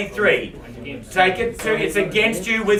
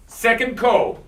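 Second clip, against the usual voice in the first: call it out; 3 semitones higher, 3 dB louder, slower than usual. Real, not acted. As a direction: ring out the last call to the room. Auctioneer calling the final bid.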